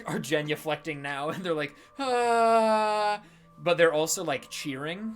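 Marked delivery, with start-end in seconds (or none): 2.0-3.2 long loud high ah; awed servants' cry. Acted. Servants genuflecting before their lord, loud high ah. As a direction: cry out in worship.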